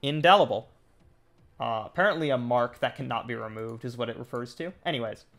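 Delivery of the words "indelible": "Indelible" louder, with a falling end; repeated-back INDELIBLE. Real, not acted. Reader repeating a pronunciation just heard, firm. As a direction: echo "indelible" back firmly.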